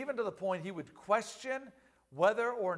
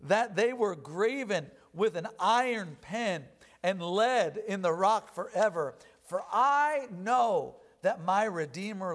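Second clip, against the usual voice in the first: slow, weighty reading of Job's lament; measured pulpit recitation of scripture; solemn scripture reading. Acted. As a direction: read it like a grieving plea, drawn out. Reads Job's confession.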